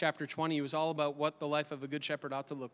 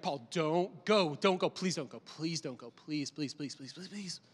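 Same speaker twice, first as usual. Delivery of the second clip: pleading, fading softer and softer; soft begging; 3 semitones lower than usual. Acted. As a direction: friends quietly begging Paul, fading to almost nothing. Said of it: "they pleaded and they begged".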